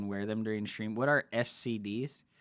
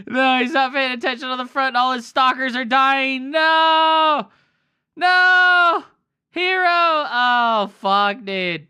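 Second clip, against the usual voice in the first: very high, very loud screamed dismay; anguished yelling; 12 semitones higher, 14 dB louder, slower than usual. Real, not acted. Streamer watching Hero's stalkers die, anguished shout. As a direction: scream as if you could warn him. Yells at player losing army.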